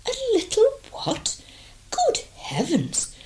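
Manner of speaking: very high shriek then whisper; shocked lady shriek. Acted.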